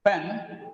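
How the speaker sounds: "Pen" as the first syllable of pencil, alone. Shown as a demonstration. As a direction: sound out "Pen" on its own. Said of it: "It has two syllables".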